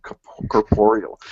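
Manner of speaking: "corporeal" sounded out slowly, kor-POR-ee-al; careful pronunciation. Shown as a demonstration. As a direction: feel your way through "corporeal" syllable by syllable. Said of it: "I had to figure out how to say that word".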